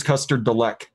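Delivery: "Delec" said as duh-LECK; correcting pronunciation. Real, not acted. Friend correcting a juice name, "Delec" said duh-LECK. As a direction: end "Delec" on a short, hard "eck". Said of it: "I believe it's".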